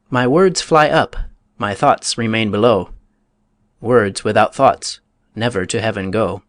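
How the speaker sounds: a hint of a guilty king praying, slow opening; the uncle confessing that his prayer is hollow, mildly hammed; insincere prayer. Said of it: "the insincere prayer of the king".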